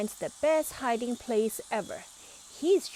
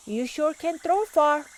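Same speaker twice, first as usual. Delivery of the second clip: higher and louder, amazed; amazed shout; 7 semitones higher, 8 dB louder than usual. A narrator's reading. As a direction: call out in wonder. Pete amazed, running after ball.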